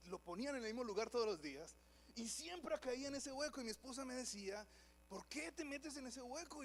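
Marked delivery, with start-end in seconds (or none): 5.1-6.6 high, slow, exasperated wife's question; scolding wife. Retold or imitated. Wife asking her husband why he keeps hitting the hole, high and slow. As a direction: drag it out like a fed-up wife.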